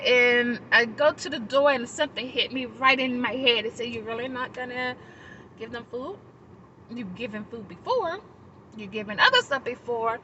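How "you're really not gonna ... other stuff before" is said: softly questioning, retold; quiet, pointed reproach of a conscience; chiding inner voice. A voice in her head questioning her refusal, softly chiding.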